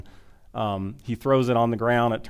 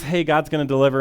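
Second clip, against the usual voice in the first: louder, higher mock-excited announcement; playing an excited messenger; acted excitement; 4 semitones higher, 6 dB louder, faster than usual. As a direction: announce it like thrilling news. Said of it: "So they're all excited".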